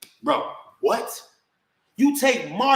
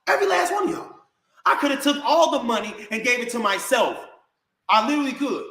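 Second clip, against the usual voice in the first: high-pitched, worked-up reproach; indignant rant; 5 semitones higher than usual. Real, not acted. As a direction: pitch climbing as you count what they owe you. Indignant rant at ungrateful family.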